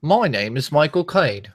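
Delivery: attempted Cockney film-star impression; rough British impersonation; Michael Caine. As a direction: keep up the London vowels. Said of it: "I can't really do it".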